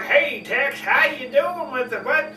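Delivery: hint of a mock Western accent. Shown as a demonstration. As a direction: lightly put on a silly Western cowboy accent. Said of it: "I gotta have a Western accent".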